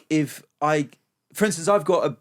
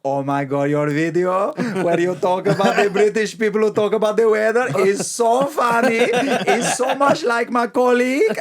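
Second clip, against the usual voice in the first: gushing fan; 8 semitones higher, 6 dB louder than usual. Retold or imitated. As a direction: play the starry-eyed fan after the show. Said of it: "They go".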